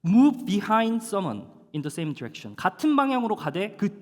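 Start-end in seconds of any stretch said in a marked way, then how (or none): 0.1-2.6 slow loud English gloss. Shown as a demonstration. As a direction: Move behind someone, very slow and louder. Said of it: "Come after 이라는 뜻입니다". (아주 느리고 크게 또박또박)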